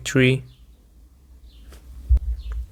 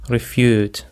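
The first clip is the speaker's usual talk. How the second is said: refute said as re-FUTE, second syllable stressed. Shown as a demonstration. Teacher models refute for listeners, stress on FUTE. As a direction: put the weight on FUTE in refute. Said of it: "The stress is on the second syllable".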